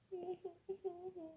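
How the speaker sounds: high, soft whimpering sobs; pretend crying. Stephanie cries in the game, soft pretend sobbing. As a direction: whimper quietly in little pulses. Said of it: "Stephanie sta piangendo".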